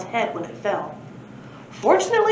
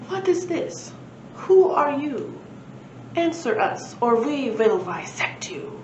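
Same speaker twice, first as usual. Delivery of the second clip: menacing wumpire; 5 semitones higher than usual. Acted. Wumpires threaten the visitors.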